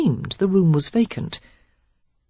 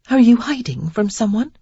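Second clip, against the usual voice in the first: put-on young woman voice; 6 semitones higher than usual. A narrator's reading. Sarah voiced in dialogue.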